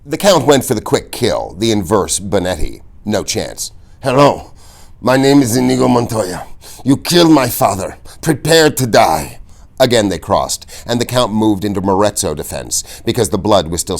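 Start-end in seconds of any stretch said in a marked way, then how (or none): 4.0-9.4 raised, steady declaration; firm vow. A narrator's reading. Inigo to the Count, firm and raised. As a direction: state it with growing resolve.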